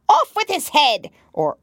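high furious shriek of a verdict; shouting Queen. A narrator's reading. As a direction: scream the sentence like a mad queen.

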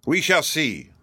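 cool, composed judge's reply; mildly firm and unruffled; unmoved. A narrator's reading. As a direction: answer without being swayed. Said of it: "said the unmoved judge".

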